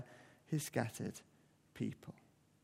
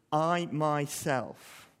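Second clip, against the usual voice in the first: "I myself" said very slowly, each word weighted; stress on I myself; much slower than usual. Shown as a demonstration. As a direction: lean hard on "I myself". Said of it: "is emphatic".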